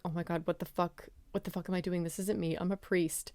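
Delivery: quietly imitated dismay; retold stunned realisation. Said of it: "he's like".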